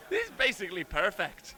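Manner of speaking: proud, badly faked Irish; bad mock Irish accent. Showing off before the Irish team, mock Irish accent. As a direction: boast in a hammed-up Irish accent. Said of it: "This is my bloody Irish".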